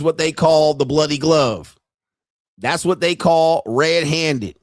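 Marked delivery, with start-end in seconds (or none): none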